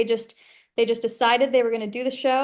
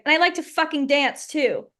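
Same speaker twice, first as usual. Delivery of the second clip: acted line; 4 semitones higher than usual. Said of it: "and I say".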